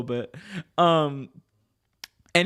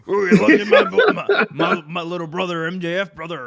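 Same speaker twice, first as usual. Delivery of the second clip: loud, high, hammed-up wrestler promo, laughing through it; Hulk Hogan impression; 4 semitones higher, 8 dB louder than usual. Mimicking Hulk Hogan hyping MJF to his co-host, loud and laughing. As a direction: ham it up like Hulk Hogan cutting a promo, brother.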